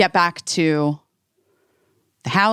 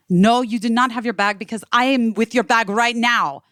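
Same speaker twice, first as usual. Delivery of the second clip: insistent imitation of a French woman, higher-pitched; French accent; 4 semitones higher than usual. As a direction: correct them firmly in a French accent. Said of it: "this woman with a French accent".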